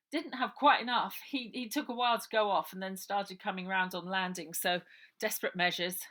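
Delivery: matter-of-fact explaining; Harry explaining how Uncle Arthur was drugged. Acted.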